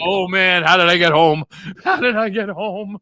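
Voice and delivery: hammed-up hungover confusion; dazed drunk. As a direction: ask it like you just woke up lost. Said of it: "I'm going".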